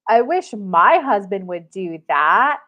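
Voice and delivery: imitating a jaw-dropped cashier; loud, stretched-out disbelief with envy; astonished. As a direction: act amazed and a little jealous. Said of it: "dropped her jaw and went".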